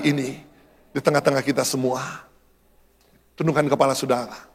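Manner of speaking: low, subdued pastoral invitation; solemn altar call. Real, not acted. Preacher asks congregation to stand and come forward, low solemn call.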